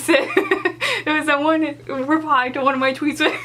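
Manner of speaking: giggling through the words; laughing while retelling; words broken up by giggles. Real, not acted. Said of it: "I don't even know why this was funny".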